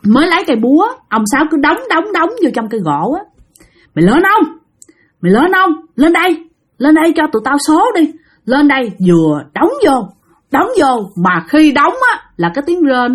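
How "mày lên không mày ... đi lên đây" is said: higher-pitched demanding call; calling up a spirit. Acted. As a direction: summon it impatiently, pitched up. Summoning the spirit with threats. (gọi hồn, giọng cao thúc giục)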